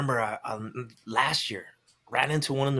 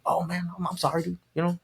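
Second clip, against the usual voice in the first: higher-pitched, placating mock apology; retold apology; 5 semitones higher than usual. Him to a stranger who challenged him, apologetic. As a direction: talk your way out, light and conciliatory.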